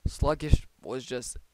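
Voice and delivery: hiccuping mid-sentence; a hiccup breaks the words. Real, not acted. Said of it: "sorry, I hiccuped".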